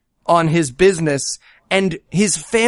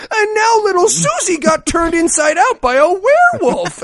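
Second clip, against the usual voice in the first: hammed-up tragic reveal; mock melodrama; 12 semitones higher than usual. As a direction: parody a soap-opera gasp line. Parodying movie melodrama.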